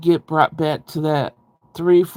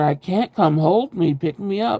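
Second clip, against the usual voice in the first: put-on pleading, screaming in a childlike voice; 2 semitones higher than usual. Retelling being a small child in the snow, screaming to her mom: retelling a child's scream. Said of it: "And I'm screaming to her".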